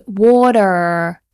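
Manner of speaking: WATER with a sounded final R; American pronunciation. Shown as a demonstration. Teacher imitating an American, WATER with definite R. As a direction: hit the R at the end of water. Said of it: "An American would say".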